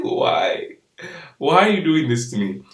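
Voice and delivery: high squeaky panic; hammed-up high-pitched dismay; mock panicked King Kai. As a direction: whine it like a startled little god. King Kai panics in retold scene.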